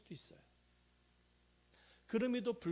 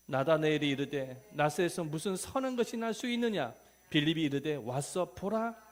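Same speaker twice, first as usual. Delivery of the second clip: loud, measured recitation of a Bible verse; scripture reading aloud; 10 dB louder than usual. Shown as a demonstration. Preacher leads congregation in Matthew verse, loud scripture recitation. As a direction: declaim the verse firmly.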